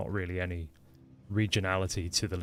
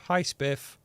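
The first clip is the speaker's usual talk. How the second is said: cheery greeting; 6 semitones higher than usual. Real, not acted. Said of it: "Say hi to Spiff".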